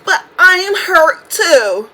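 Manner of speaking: slow, drawn-out mock hurt; mocking imitation. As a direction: draw it out, making fun of her claimed hurt. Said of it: "for Lisa to be like".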